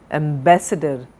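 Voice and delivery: "ambassador" as am-BASS-uh-dur; stress on second syllable. Shown as a demonstration. Teacher modelling for students, "ambassador" stressed on BASS. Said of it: "On the second sound".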